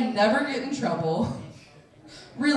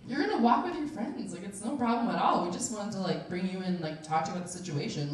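softer, settling mock-official calm; reassuring; 2 semitones lower, 7 dB quieter, faster than usual. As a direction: imitate a dean gently calming a student. Dean reassures the crying student.

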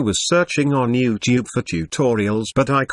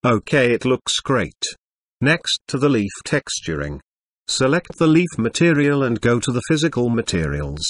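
robotic text-to-speech computer voice. Acted. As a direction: read it like an old speech synthesizer. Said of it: "sorry for the computer voice".

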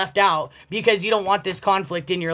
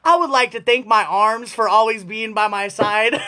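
laughing mock speech. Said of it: "walk up on stage and be like".

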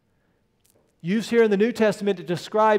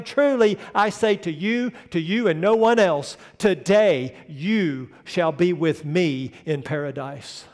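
bold proclamation; 3 dB louder than usual. Acted. Preacher voicing Jesus's promise to the thief, ringing out. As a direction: proclaim it like a king's decree.

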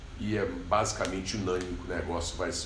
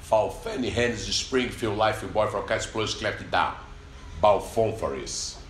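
English accent; slower than usual. Shown as a demonstration. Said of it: "Vou dar o replay aí".

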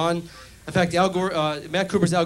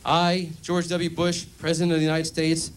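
mock oath. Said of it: "he raises his hand".

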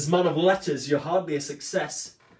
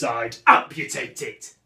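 blunt, louder threat; aggressive; 4 semitones lower, 4 dB louder than usual. Acted. Cyrano mocks his rival, aggressive and threatening. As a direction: hit it like a menace. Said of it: "if you chose the approach aggressive".

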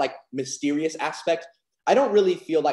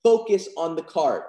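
confident; 2 semitones higher than usual. Shown as a demonstration. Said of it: "I was very confident when I was saying".

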